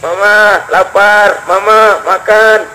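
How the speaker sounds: put-on very slow whining child's plea; a lightly voiced hungry child whining; crying child. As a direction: drag the words like a hungry child sobbing. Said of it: "anak-anak kecil lagi pada nangis".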